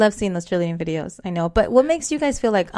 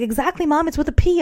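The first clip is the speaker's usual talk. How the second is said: daughter correcting; 6 semitones higher than usual. Retold or imitated. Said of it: "She's like".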